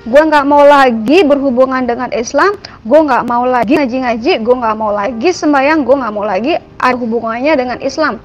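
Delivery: retold rude rant. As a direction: vent defiantly at God, retelling it. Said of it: "saya ngomong kasar". (menirukan luapan kesal dengan nada kasar)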